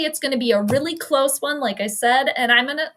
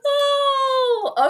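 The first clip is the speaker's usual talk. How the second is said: high "oh" after a laughing fit; long high exhale of amusement; laughing sigh; 14 semitones higher, 3 dB louder than usual. Real, not acted. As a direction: come down from laughing.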